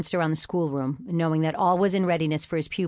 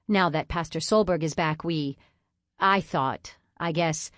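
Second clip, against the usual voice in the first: stammering. Acted. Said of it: "she stammered to a close".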